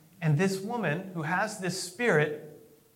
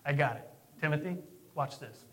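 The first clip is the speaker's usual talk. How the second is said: confident aside; 4 semitones lower, 5 dB quieter than usual. Retold or imitated. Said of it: "if he says".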